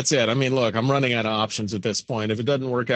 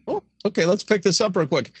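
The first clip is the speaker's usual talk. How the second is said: mock psychic hotline. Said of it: "somebody sitting in a room there".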